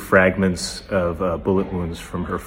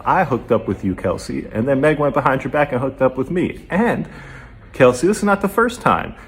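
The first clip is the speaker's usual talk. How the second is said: heated questioning; 5 semitones higher than usual. Retold or imitated. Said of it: "Tory questions Kelsey".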